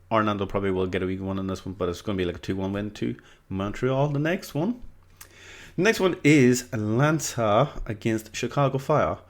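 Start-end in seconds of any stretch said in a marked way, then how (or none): 4.1-9.2 slightly slow, drawn-out English accent. Real, not acted. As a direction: slip into a light English accent for the announcement. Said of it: "said it like that in an English accent".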